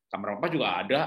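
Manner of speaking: ayah menjawab lebih rendah dan santai; jawaban ayah tenang. Retold or imitated. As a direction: suara ayah yang tenang dan menenangkan. Ayah membalas anak dengan tenang. (ayah menjawab anak dengan santai)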